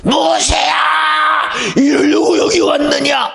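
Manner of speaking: high, drawn-out wailing shout at Moses; panicked crowd crying out. Acted. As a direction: cry out to Moses in desperate blame. Israelites complaining at Red Sea.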